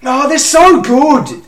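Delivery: high, drawn-out pained groan; exasperated groan. Real, not acted. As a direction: whine it out slowly, beaten. Rival team praise, groaning.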